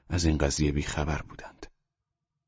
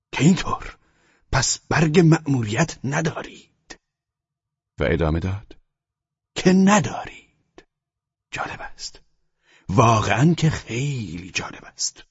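high, slow sneering officer, stretching each word; mocking tone; 8 semitones higher, 3 dB louder, slower than usual. A narrator's reading. SS officer mocking the boys with no papers, sneering slowly. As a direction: drag every word out with scorn. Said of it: "با لحنی مسخره گفت".

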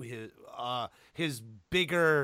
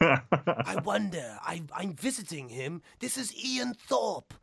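slow, exaggerated Australian accent; hammed-up Aussie documentary host accent; 3 semitones higher, slower than usual. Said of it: "doing this ridiculous accent".

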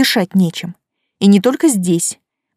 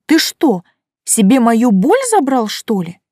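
worried; 3 semitones higher, 4 dB louder than usual. Acted. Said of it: "заволновалась я".

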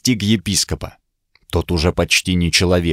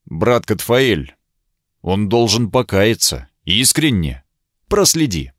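struggling to speak. Acted. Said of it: "Слова давались мне с трудом".

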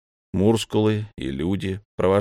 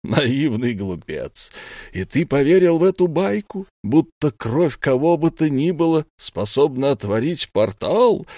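mocking scorn; 6 semitones higher, 3 dB louder than usual. A narrator's reading. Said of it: "Мардрип расхохотался".

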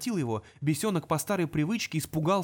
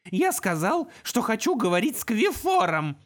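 much higher, louder commanding shout; powerful shout; 7 semitones higher, 5 dB louder than usual. Acted. Imp demanding Qwan in a mighty shout. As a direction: voice of pure magic. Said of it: "голос не принадлежал номеру первому".

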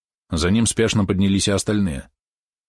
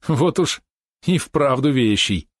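laughing; 6 semitones higher, slower than usual. A narrator's reading. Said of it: "рассмеялся Розмич".

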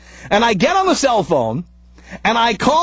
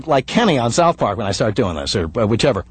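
Kenny voice; 14 semitones lower than usual. Shown as a demonstration. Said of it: "Why do I start sounding like".

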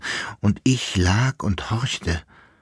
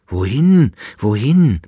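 louder pleading cry, higher; desperate call; 3 semitones higher, 5 dB louder than usual. Acted. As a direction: call after her in despair. Verzweifelter Ruf des Kaisers. (verzweifelter, lauterer Ruf)

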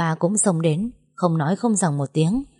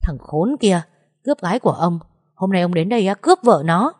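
angry ranting that grows louder at the end; spitting abuse; 3 dB louder than usual. Acted. Young master cursing the man who took his woman, angrily. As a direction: hurl insults at him, building to a yell. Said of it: "mắng người bọt mép văng tung tóe".

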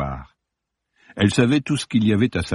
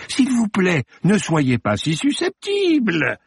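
higher, slower pleading call; bawled plea; 10 semitones higher, slower than usual. Acted. Morbus calling Judith back, pleading. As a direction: beg her to stay, calling out. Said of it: "brailla-t-il".

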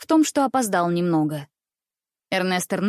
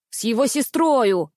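almost shouted; 3 semitones higher, 3 dB louder than usual. A narrator's reading. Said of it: "почти выкрикнул в голос Никс".

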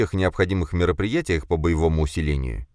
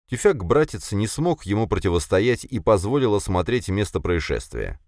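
ordinary delivery

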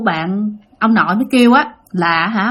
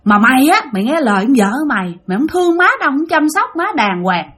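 retold scolding in a higher pitch; chửi trách; 3 semitones higher than usual. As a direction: reproach him, pitch lifted, as a mock telling-off. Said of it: "bà hai mới chửi nói". (giọng mắng trách cao, kể lại)

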